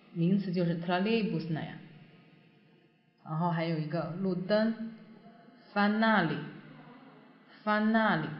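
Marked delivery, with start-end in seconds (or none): 5.7-8.3 фонарь slow, stress on the а, о reduced; фонарь with the weight on the last syllable. Shown as a demonstration. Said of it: "这个重音在啊上面呢".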